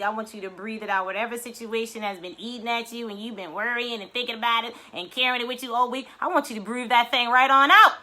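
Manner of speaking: calm guided breathing; gentle breathwork guide; breathing coach. Acted. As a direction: coach them to let it all out. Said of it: "leads breathing exercise".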